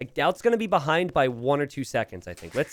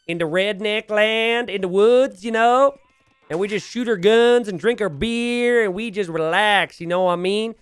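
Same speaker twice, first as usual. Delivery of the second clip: higher, louder rural Pennsylvania redneck drawl; hammed-up hick accent about guns and beer at camp; 8 semitones higher, 6 dB louder than usual. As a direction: ham up a backwoods redneck accent, relaxed and proud. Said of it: "you have to talk like that when you're there".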